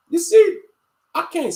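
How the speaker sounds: sharp, loud high call to attention; sudden loud exclaim. Real, not acted. Preaching to viewers, a sudden loud high you see. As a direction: jolt them awake with it. Preaching against wicked rappers.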